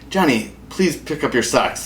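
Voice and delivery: ordinary talk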